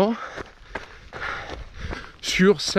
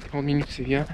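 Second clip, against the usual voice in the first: softer, lower, to himself; quiet muttered repeat; 4 semitones lower, 5 dB quieter than usual. Real, not acted. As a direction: mutter it again for yourself. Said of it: "repeats it to himself". (répété à voix basse)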